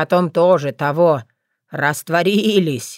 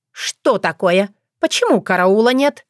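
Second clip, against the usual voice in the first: booming, demanding call; suspicious guard; 3 semitones higher, 4 dB louder than usual. Acted. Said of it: "прозвучал за дверью зычный голос Гориславы".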